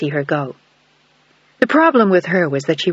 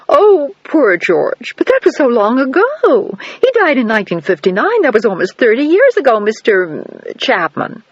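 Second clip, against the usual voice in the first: higher, slow, wistful woman's voice; wistful older countess; 6 semitones higher, 4 dB louder than usual. A narrator's reading. Countess on the phone recalling her late husband, slow and wistful. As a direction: sigh over a husband long dead.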